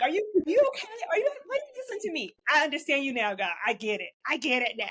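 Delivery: high, laughing mock God voice. Friends joking about God's patience, high and laughing. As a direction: squeak it out through laughter as God. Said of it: "God be looking around like".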